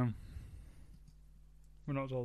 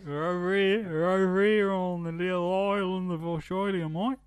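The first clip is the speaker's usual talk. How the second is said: higher, hammed-up Australian accent; purposely bad Australian accent; 5 semitones higher than usual. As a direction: do a deliberately terrible Aussie accent. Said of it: "purposely bad accent".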